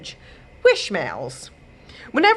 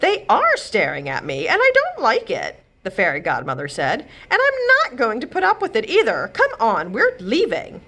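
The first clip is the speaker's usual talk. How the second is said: indignant; 4 semitones higher than usual. Acted. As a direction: insist on leaving now. Godmother insists angrily.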